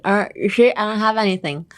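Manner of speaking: talking around hidden candy; hiding candy in mouth. Retold or imitated. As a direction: speak like you're hiding a candy. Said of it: "you open your mouth like".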